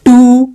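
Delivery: "टू" held as a syllable alone; teacher stretching "टू"; isolated syllable. Shown as a demonstration. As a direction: sound out "टू" long and separate. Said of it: "देखो, तोड़ रहे हो".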